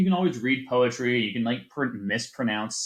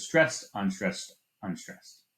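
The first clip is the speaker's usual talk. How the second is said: "stressed" leads, each "unstressed" falls away; weight on "stressed", then two fading steps on "unstressed, unstressed"; dactylic stress demo; slower than usual. Shown as a demonstration. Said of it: "Dactylic foot is also a three".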